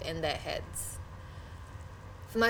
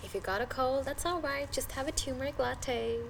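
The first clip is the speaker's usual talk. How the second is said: mock-enthusiastic lifestyle chatter; gushing turmeric fan; 4 semitones higher than usual. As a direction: parody a wellness devotee raving. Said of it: "it's all about".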